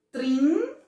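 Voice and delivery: "trinta" as high trin, long pause, ta; loud rising first syllable of "trinta", then a gap. Shown as a demonstration. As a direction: break "trinta" into two separate beats. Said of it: "quando for separar".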